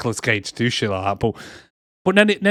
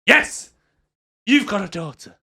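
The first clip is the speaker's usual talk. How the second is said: exasperated; 4 semitones higher than usual. Retold or imitated. Acted exasperated confirmation of fatherhood.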